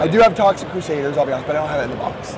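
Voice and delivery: lost voice, rough and hoarse; hoarse like gargling rocks. Real, not acted. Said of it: "I have lost my voice".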